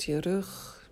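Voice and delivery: soft unvoiced whisper. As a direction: breathe the word right into the ear. Whispered body-scan cue.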